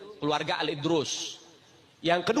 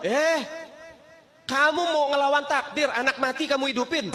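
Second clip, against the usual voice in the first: stern challenge; 7 semitones higher than usual. Acted. Sheikh challenges the maid for reviving the child, raised and indignant. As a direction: confront her for defying fate.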